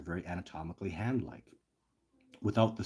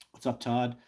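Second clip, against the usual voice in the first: chesty cough; 4 semitones higher than usual. Real, not acted. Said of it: "I'm coughing again".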